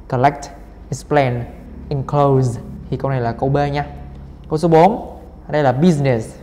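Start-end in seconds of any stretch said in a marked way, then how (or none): 0.1-2.6 "Collect, explain, enclose" each stressed on the last syllable; second-syllable stress. Shown as a demonstration. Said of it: "còn là âm hai". 5.7-6.3 "business" stressed on BUSI; first-syllable stress. Shown as a demonstration. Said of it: "âm một".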